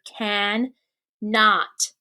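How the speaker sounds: Can and not split into separate syllables. Shown as a demonstration. Teacher splits cannot into syllables for class. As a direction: pause between Can and not. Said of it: "I don't hear any long vowels".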